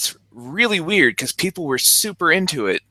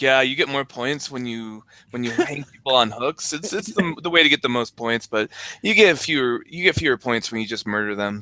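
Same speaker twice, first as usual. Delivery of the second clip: deadpan. Retold or imitated. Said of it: "he's so deadpan".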